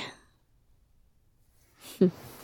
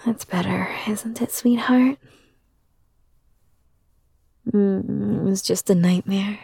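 put-on soothing a child. Comforting a child after a nightmare.

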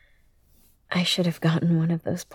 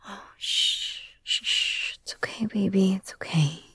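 put-on soothing a child; 4 dB quieter than usual. Hushing a child back to sleep.

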